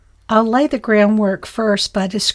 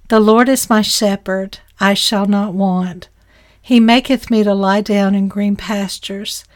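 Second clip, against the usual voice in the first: measured, reverent reading of the psalm; solemn devotional recital; scripture reading. Acted. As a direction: read it like King James scripture aloud. Reads Psalm 23 aloud.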